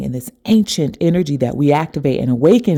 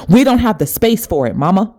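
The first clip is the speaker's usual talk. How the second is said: higher, insistent, leaning on we; raised urgent plea; 5 semitones higher than usual. Retold or imitated. Spirit urging her crying mother, higher insistent plea. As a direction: push hard, almost pleading. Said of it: "and it said to her".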